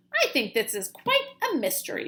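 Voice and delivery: chirping. Acted. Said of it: "Flap chirped".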